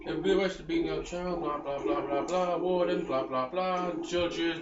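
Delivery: droning mock British blah-blah; a hint of a mock British accent. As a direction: parody the NPC's dialogue in a lazy British accent. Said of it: "in that accent".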